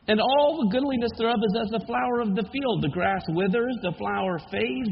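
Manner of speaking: measured, solemn Bible reading; scripture reading. Acted. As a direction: read the prophecy with gravity. Reads Isaiah forty.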